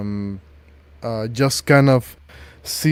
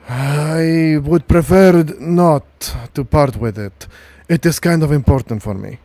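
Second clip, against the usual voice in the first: put-on gruff old soldier; 3 semitones higher, 5 dB louder than usual. GM voicing Sergeant Lucas.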